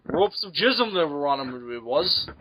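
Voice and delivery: put-on Canadian with tagged-on ending; joking Canadian lilt; mock Canadian accent. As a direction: play a good-hearted Canadian. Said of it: "I'm talking like a good-hearted Canadian".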